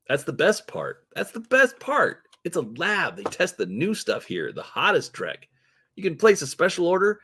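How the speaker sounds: high, excited salesman's patter; swooping, high-pitched dealer enthusiasm; twitchy orc dealer. Acted. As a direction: pitch it like an overeager street hustler.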